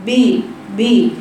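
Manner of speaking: ب said short and open, not a full kasra; wrong clipped kasra. Shown as a demonstration. Teacher mocks the wrong ب sound. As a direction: clip ب as the wrong reading. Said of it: "مفيش حاجة اللي هي اللغة العربية فيها هكذا".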